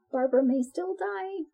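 a teasing whisper; whispered aside. Pretend. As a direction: whisper it as a joke. Joking aside about the co-host.

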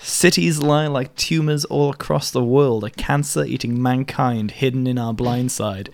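slow, flat monotone lyric reading. Shown as a demonstration. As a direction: read the lyrics in a dull monotone. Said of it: "my job to recite lyrics in a monotone voice".

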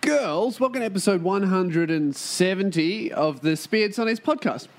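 showman host voice, high and drawn out; grand entrance announcement. Acted. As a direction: announce it like a circus ringmaster. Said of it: "I can't stop doing that shit".

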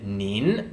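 nin rising, drawn out slowly; second tone. Shown as a demonstration. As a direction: let nin rise slowly. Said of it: "N I N in the second tone".

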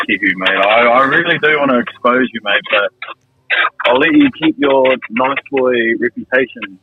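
ordinary delivery

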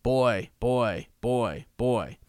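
mild raven call, no real laugh; shrill raven laugh. A narrator's reading. Raven mocking the boy king, lightly imitated cry. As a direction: repeat it as lightly voiced bird cries. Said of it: "The raven laughed shrilly".

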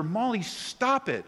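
mock yell at dog. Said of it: "we would yell at her".

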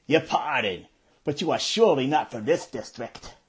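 put-on Tom in a Brooklyn accent; courtly bow in Brooklyn accent. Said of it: "I use what I called my Brooklyn accent".

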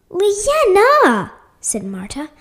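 loud, high stern call; scolding. A narrator's reading. Marta catching Leanna with chocolate, scolding loudly. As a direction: call the name out in reproach. Mother scolding her child.

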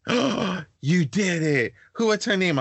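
high, gasping mock delight; imitating excited grandma. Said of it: "And she was like".

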